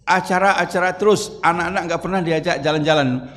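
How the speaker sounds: a hammed-up complaining wife; dramatic nagging wife. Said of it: "langsung drama".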